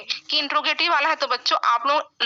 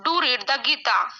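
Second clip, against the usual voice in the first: very slow, word by word, for students to write down; slow dictation; much slower than usual. Shown as a demonstration. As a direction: spell it out slowly so the class can copy it.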